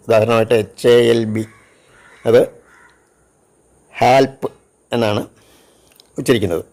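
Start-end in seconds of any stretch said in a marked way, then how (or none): 4.0-4.5 "ഹാൽപ്പ്" ending in a crisp p; final P sound. Shown as a demonstration. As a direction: demonstrate "ഹാൽപ്പ്" with b turned to p. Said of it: "പി എന്ന അക്ഷരത്തിൻ്റെ ഉച്ചാരണം". ("ഹാൽപ്പ്" അവസാനം പി ശബ്ദത്തോടെ)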